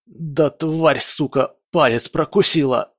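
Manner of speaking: сорванный хрип сквозь боль; прохрипеть, мучаясь от укуса; хриплый от боли. Acted. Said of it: "прохрипел он". (хрип от боли)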